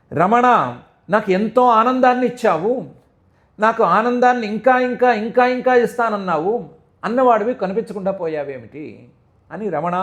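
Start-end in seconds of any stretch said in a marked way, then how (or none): 0.1-8.9 raised, pleading cry to the lost beloved; mock anguished calling; loud lament. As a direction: call out for him, higher and louder. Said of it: "అని గట్టిగా అరిచింది".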